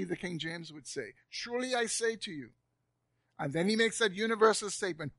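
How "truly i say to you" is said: higher-pitched solemn pronouncement; a solemn vow, lifted in pitch; solemn declaration. Retold or imitated. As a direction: declare it solemnly, without raising the volume. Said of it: "He says it solemnly".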